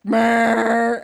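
mechanical honking laugh; robot laugh. Retold or imitated. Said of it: "I sound like a robot".

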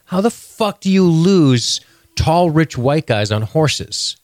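high, slow disbelieving outburst; incredulous rant. Real, not acted. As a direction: stretch it out in disbelief. Incredulous rant about park.

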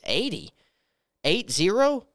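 high, rising double-check Eighty? Eight zero?; surprised. Retold or imitated. Nurse hearing the dose, alarmed and surprised. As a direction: ask it back in disbelief.

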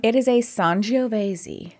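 whispered, savoring Sangiovese; hushed sommelier Sangiovese; whispered wine name. Shown as a demonstration. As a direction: breathe Sangiovese like a secret.

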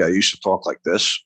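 a light Long Island accent on "I used to talk like this". Shown as a demonstration. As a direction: show off the old Long Island accent in passing. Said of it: "'cause I'm originally from Long Island".

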